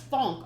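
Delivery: "Thonk." dull and level, with a th; kick noise. Shown as a demonstration. Reader correcting the kick sound to "Thonk.". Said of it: "Oh, it's thonk".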